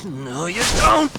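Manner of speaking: slow, loud defiant yell; stretched-out loud cry; loud shout. Acted. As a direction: shout him down as he flees. Chasing the fleeing man.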